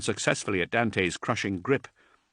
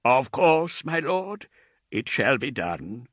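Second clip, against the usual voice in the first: a hint of a higher, deferential servant; lightly voiced old thrall; 4 semitones higher, slower than usual. Aged thrall reassuring Dante, lightly voiced and deferential. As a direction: answer your lord with humble care.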